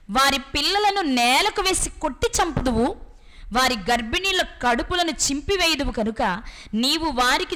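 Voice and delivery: slow, emphatic scripture reading; solemnly proclaimed Bible verse. Acted. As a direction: declaim the prophecy in measured, drawn-out phrases. Reads Elisha's prophecy aloud from scripture.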